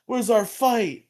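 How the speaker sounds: high, slow mock complaint; whiny crowd wanting their fight; mock whine. Audience members complaining to Bulk and Skull, high and whiny.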